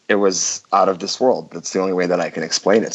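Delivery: usual speaking voice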